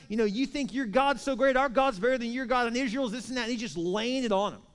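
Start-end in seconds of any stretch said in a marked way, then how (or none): 0.1-3.4 high-pitched taunting rant; raised, jeering retelling of a yell; mock yelled taunt. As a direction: imitate a boastful bully's tirade. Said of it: "yelling at them".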